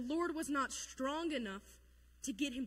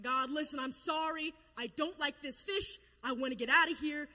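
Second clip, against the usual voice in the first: hammed-up, emphatic apology; imitating a desperate bargainer begging God; mock pleading prayer; 2 semitones higher, 5 dB louder than usual. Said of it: "Jonah prayed out to God and was like".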